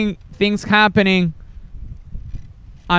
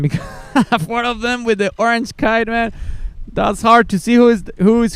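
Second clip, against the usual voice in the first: amused, higher voice breaking into laughter; laughing while commentating; 4 semitones higher than usual. Real, not acted. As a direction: talk through a real laugh, pitched higher. Amused by identical orange kites.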